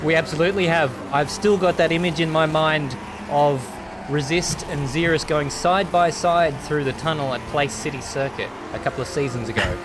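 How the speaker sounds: projected on-air commentator voice; race commentary. Acted. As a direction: reminisce for the viewers in broadcast style.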